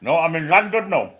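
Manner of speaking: put-on German accent. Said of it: "it's a German Welsh accent".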